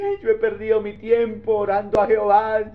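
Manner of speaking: lightly voiced worried believer; a hint of a wailing churchgoer; mock lament.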